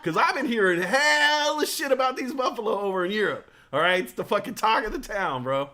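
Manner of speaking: loud, high, hyped-up bro voice; hyped bro rant. Pretend. Buddy hyping buffalo to his friend, loud and high. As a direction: pump it up like a bro at a party.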